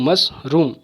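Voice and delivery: "मशरूम" in two beats, मश, pause, रूम; a clear break midway through "मशरूम"; split into syllables. Shown as a demonstration. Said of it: "दो बार में ही मैं बोल पा रहा". ("मशरूम" को मश और रूम में तोड़कर)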